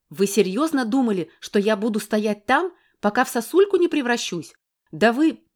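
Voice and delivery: woman shouting at the man; angry shouting. Acted. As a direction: build into a shout at him.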